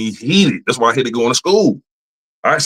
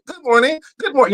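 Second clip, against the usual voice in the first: much higher, sing-song chipper greeting; mock the cheery coworkers. Mocking chipper coworkers at work, sing-song. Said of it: "I had to say it so many times".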